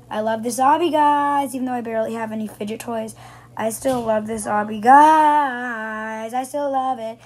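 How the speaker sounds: loud excited yelling. Real, not acted. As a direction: shout it out with excitement. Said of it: "Sorry I'm yelling loud".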